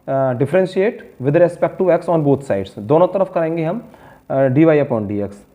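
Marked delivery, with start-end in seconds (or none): 0.1-2.8 very slow, each word spelled out for writing; slow dictation. Shown as a demonstration. Teacher dictating a step to students, very slow. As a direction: dictate slowly so students can copy. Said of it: "यहाँ लिखेंगे हम".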